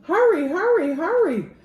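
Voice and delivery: loud, high urgent calls; urgent hurry. A narrator's reading. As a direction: rush the firemen on. Firemen rushing to fire.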